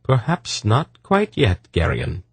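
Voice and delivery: cool, slow refusal that starts high; cold. Acted. Polgara refuses the pleading husband, coldly. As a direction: refuse him coolly, taking your time. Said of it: "Polgara said coldly".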